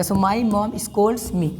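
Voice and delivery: So my mom scolds me drawn out very slowly; slow dictation. Shown as a demonstration. Teacher dictating an example to students, very slow. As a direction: dictate each word slowly so students can write. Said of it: "teacher dictates example sentence".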